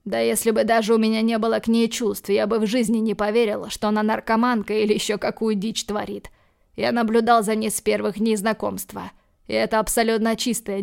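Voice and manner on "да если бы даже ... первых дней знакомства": usual speaking voice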